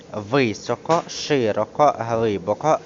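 ВИСОКО, ШИРОКО, ГЛИБОКО each with the beat on the first syllable; first-syllable stress. Shown as a demonstration. Teacher giving adverbs to memorize, stress on first syllable. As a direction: hit VY, SHY, HLY at the front. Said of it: "падає на перший склад".

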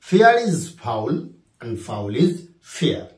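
drawn-out repeat of the example; slow dictation repeated. Shown as a demonstration. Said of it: "কি?".

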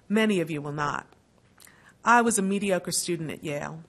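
lightly voiced Kentucky accent, unhurried and dry. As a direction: imitate an old Kentucky law professor lightly, in a Kentucky accent. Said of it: "I'm gonna do his accent".

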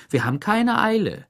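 bossy Warden. A narrator's reading. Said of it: "wiederholte die Chefin".

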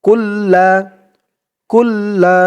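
কুল্লা with the ল doubled and held; doubled lam. Shown as a demonstration. Teacher shows viewers the tashdid in কুল্লা. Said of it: "তাই লামটা দুইবার পড়তে হবে".

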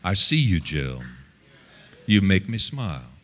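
low, gentle reassurance; God's tender voice. Retold or imitated. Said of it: "God was telling me".

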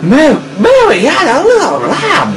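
high, swooping exclamation; sing-song high yelp; nursery-line outcry. Pretend. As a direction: cry out the nursery line in big pitch swoops. Nursery line cried out while fighting.

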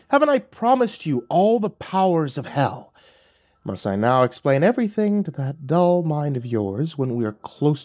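a demon losing patience; lightly voiced furious devil, menacing; angry devil. Lucifer threatens, tail swishing.

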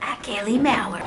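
lightly put-on movie trailer announcer. Announcing a social media handle, mild trailer voice. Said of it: "you get the trailer voice".

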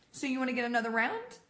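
quick, casual retold question; blasé friend. Friend at the bar after confession, blasé. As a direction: breezily move on, imitating an unbothered friend. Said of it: "is going to be blasé about it".

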